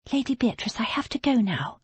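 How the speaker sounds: breathy whisper of leave-taking. Acted. Abby whispering goodbye to Lady Beatrice. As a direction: whisper it so no one hears. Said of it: "she whispered".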